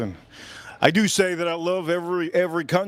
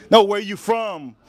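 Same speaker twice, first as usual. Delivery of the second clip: sharp, louder demand from a disbelieving teacher; insistent teacher; 4 semitones higher, 4 dB louder than usual. Retold or imitated. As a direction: press the question as if the answer didn't count. Teacher interrogates the American kid.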